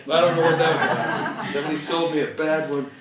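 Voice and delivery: amused disbelief, laughing through the words. Real, not acted. Joking about the useless fireproof safe.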